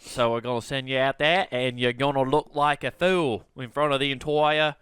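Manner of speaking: attempted Aussie accent drifting toward Louisiana; lightly hammed Australian twang; mangled Australian accent. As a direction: put on a bad Australian accent. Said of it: "Why are you talking like a Louisiana?".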